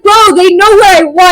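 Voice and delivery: high, laughing complaint; laughing exclaim. Real, not acted. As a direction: laugh it out loud.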